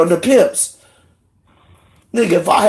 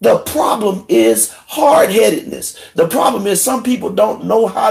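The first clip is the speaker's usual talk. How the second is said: angry shout; 4 semitones higher than usual. Real, not acted. Ranting, shout heard.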